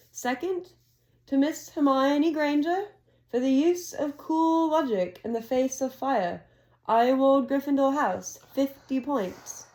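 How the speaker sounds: a hint of a ceremonious headmaster; Dumbledore announcing. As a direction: announce the scores like a proud old wizard. Dumbledore awarding points.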